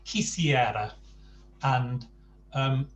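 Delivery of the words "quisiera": quisiera with a crisp hard K at the start. Shown as a demonstration. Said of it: "Q is a really hard K sound".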